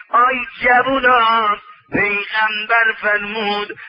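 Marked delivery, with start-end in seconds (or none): 0.1-1.6 calling out. Acted. Preacher calls out to youths.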